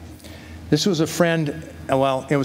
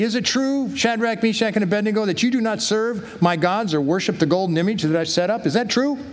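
lightly acted king, pitched higher; a raised-pitch hint of a questioning ruler; 6 semitones higher than usual. King confronts three men who refuse his gods, lightly acted questioning. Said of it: "he's giving them the second chance".

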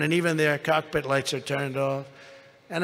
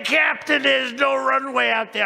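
mock alarmed shout; 8 semitones higher than usual. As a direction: play up the panic to the pilot. Alarmed plea to captain.

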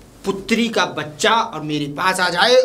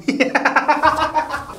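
sly cackle; 7 semitones higher than usual. Acted. Baba hides, laughs.

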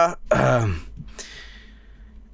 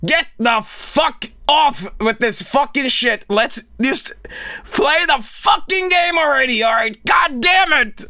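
imitating angry viewers; 7 semitones higher than usual. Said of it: "there's people gonna be there like".

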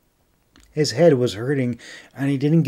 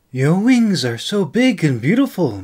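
soft sing-song; 6 semitones higher, 5 dB louder than usual. Acted. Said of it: "in a soft, sing-song voice".

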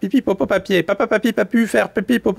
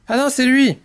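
mild, higher cry of denial; 5 semitones higher than usual. Acted. Ostrich passes blame to the owl, mild high cry. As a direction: protest in a raised pitch. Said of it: "crie l'autruche".

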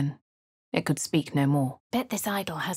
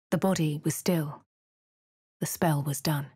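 whisper; 3 semitones lower than usual. Acted. Hushed narration of a death.

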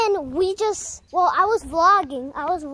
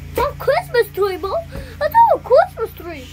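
insistent; 8 semitones higher, 4 dB louder than usual. Real, not acted. Insisting repeatedly, getting louder.

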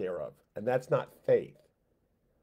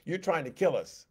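whiny, higher complaint; mock grumbling, raised pitch; complaining; 5 semitones higher than usual. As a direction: whine at God like a grumbling crowd. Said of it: "They complained and said".

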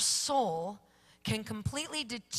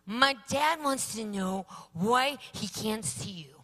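slow, lightly voiced little boy; a hint of a young boy, slowly; child relaying; slower than usual. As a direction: pass dad's question on like a small son. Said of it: "he goes".

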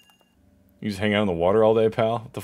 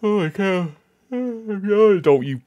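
exasperated disbelief; 12 semitones higher, 7 dB louder, much slower than usual. Real, not acted. Boss yawns at him.

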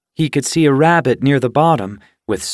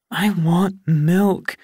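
whiny kitten; 7 semitones higher, much slower than usual. A narrator's reading. Kitten refuses strange food.

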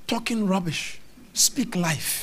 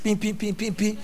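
imitated meter beeps; short, repeated electronic pings; beeping machine; 2 semitones higher than usual. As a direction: mimic a prepaid meter's alert. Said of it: "the machine will be beeping".

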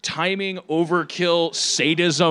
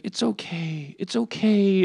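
mock comforting; 3 semitones higher, slower than usual. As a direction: play at soothing a sick patient. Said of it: "the empathy that she was having".

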